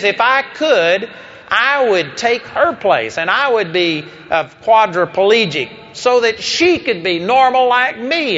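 mild mock yell, rising in pitch; imitating an outraged dad, emphatic; retold scream. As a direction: act out an upset father's protest, impassioned but short of screaming. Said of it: "he screamed at me".

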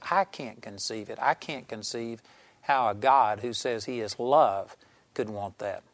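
understated imitation of a man near tears; retold tearful admission. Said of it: "he began to cry".

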